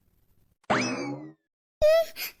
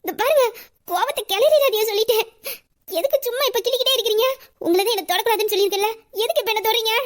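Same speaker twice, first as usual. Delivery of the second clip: raised, higher voice, half laughing; mock angry scolding; 5 semitones higher than usual. Ruby scolding her boss for pinching her, raised and half laughing.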